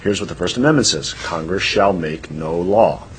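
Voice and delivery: measured, softened quote of a law professor; lightly voiced professor. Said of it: "the professor says".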